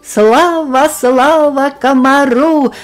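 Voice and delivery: повыше и погромче, торжественно тянуть победителю; хор букашек радостно славит героя; ликующее славление. Acted. Букашки славят комара. (букашки торжественно славят комара-победителя)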